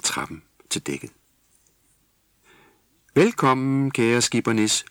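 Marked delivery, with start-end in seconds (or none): 3.1-4.8 high, loud chorus of animals; animal voices calling. A narrator's reading. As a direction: call across from the shore. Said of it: "lød dyrestemmer inde fra land". (dyrestemmer fra land)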